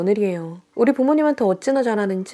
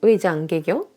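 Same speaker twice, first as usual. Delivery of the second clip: cruel mock comfort. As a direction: purr it out, enjoying her tears. Sister-in-law taunting her crying.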